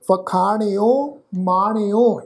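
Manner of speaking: ਵਖਾਣਿਓ and ਮਾਣਿਓ with long "aa" and final "o"; ਵਖਾਣਿਓ, ਮਾਣਿਓ said measuredly, rhyming in "-aaneo"; shown pronunciation. Shown as a demonstration. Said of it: "ਇਸ ਢੰਗ ਨਾਲ ਪਾਠ ਉਚਾਰਨ ਕਰਾਂਗੇ".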